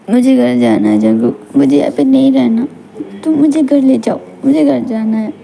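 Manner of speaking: insistent, distressed plea; upset pleading. Acted. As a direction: beg to be taken home after a scare. Shaken girl begs to go home. (घबराकर घर जाने की ज़िद)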